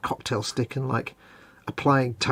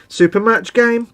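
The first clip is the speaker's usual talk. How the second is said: hype announcer; 9 semitones higher, 7 dB louder than usual. Acted.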